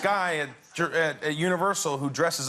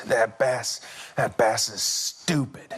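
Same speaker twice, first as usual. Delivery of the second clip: slow, halting mock-tearful complaint; a touch of a crying boy's grievance; tearful child, imitated; 4 semitones lower, slower than usual. Son cursing the fish to dad, mildly imitated tears. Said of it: "He starts to cry".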